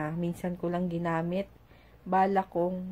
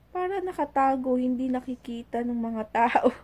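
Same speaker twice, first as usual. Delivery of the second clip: put-on child's voice; 5 semitones higher, 4 dB louder than usual. Child's reply, mother retelling.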